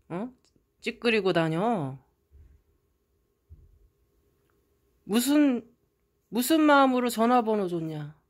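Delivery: loud, scornful yell at the sister; angry scolding. Retold or imitated. Older brother yelling at his sister over the prince, loud scorn. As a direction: tear into her mockingly.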